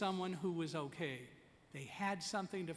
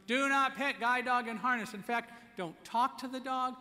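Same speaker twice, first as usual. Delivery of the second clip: firm rule; 7 semitones higher, 7 dB louder than usual. Real, not acted. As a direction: drive each word home like a rule. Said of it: "It wasn't the time to give him a lecture".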